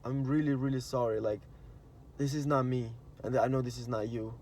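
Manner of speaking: soft, humble apology; sincere apology. Retold or imitated. Apologizing right away after a fight, softly and sincerely. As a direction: apologize gently and from the heart. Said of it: "Be like".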